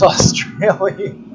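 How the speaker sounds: British attempt sliding into Australian accent; drawn-out, playful Australian accent. Shown as a demonstration. Speaker showing a failed British attempt, Australian accent. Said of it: "every time I do a British accent".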